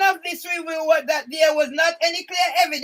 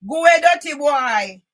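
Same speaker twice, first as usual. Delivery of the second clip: louder, shouted go away; shouted dismissal; 5 dB louder than usual. Retold or imitated. Shooing off the dirty boy, shouted louder. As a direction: yell it at the boy to shoo him off.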